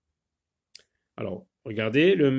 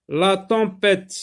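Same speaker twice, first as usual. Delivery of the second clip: slow, carefully enunciated word; dictation style; 4 semitones higher, 3 dB louder, slower than usual. Shown as a demonstration. Teacher dictating a French word to children, dictation style. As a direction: announce the word slowly for young pupils.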